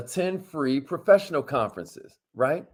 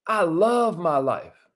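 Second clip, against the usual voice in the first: affirmation; slower than usual. Shown as a demonstration. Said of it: "Say it like you mean it".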